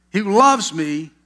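slow, loud, drawn-out "loves"; emphatic repeat. Real, not acted. Preacher repeating the key phrase to congregation, emphatic. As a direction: lean hard and long on "loves".

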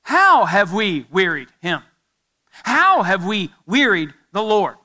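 slow, drawn-out mock puzzlement; acted sarcastic challenge to God; sarcastic question. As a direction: stretch each phrase with sarcastic innocence. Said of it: "this is the fifth sarcastic question".

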